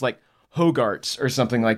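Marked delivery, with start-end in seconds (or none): 0.6-1.2 "Hogarts" said as HOH-garts; mispronounced Hogwarts. Retold or imitated. Reader recalling a wrong guess, "Hogarts" as HOH-garts. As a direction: say "Hogarts" with no W sound. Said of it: "convinced that it was pronounced".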